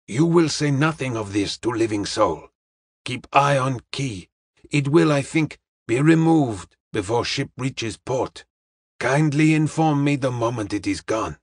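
measured, deliberate detective giving orders; a hint of Charlie Chan's careful formality; lightly voiced Chinese detective. Detective instructs a man to keep watch, measured and formal.

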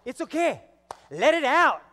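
high, loud, exclaimed encouragement; urging on. Acted. Friend urging crying woman in church, loud encouragement. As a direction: call it out to coax the tears. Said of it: "And she's like".

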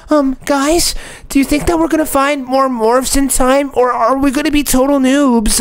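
a hint of a Shorts narrator; YouTube Shorts voice. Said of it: "why do you sound like that".

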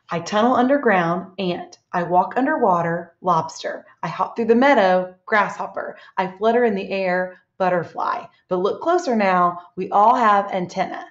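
measured riddle-book reading, pausing before each animal name; teacher's reading voice; picture book read-aloud. Acted. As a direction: read it out to young children.

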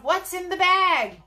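high, slow, drawn-out demand; crying out. A narrator's reading. Fellow in the crowd demands to see, crying out. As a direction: call it out, stretching the words. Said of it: "cried a fellow in the crowd".

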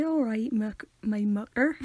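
slow, hesitant mock Devon accent. Imitating a Devon greeting for a friend, drawn-out mock Devon accent. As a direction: stretch it out in a put-on Devon accent. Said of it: "And they say".

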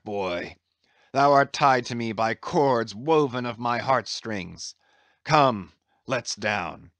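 lightly voiced old captain in lofty appeal; a touch of grand, fervent declaiming; impassioned Captain Ahab. Captain takes the abandoned boy under his care, impassioned.

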